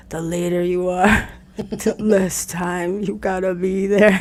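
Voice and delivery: hammed-up dark inner villain; slow theatrical villain menace. Shown as a demonstration. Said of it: "You gotta do it in the villain voice".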